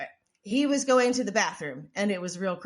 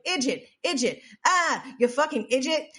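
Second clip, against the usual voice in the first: higher-pitched mock yell; audience heckler yelling; 5 semitones higher, 3 dB louder than usual. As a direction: imitate a heckler shouting from the crowd. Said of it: "she heard someone in the audience yelling".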